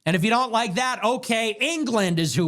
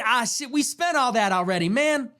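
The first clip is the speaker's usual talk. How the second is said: mock leader voice; 4 semitones higher than usual. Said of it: "get up and say".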